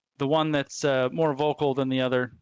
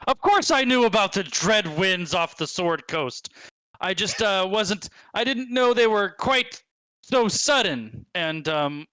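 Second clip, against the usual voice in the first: blustering goblin; 3 semitones higher than usual. Acted.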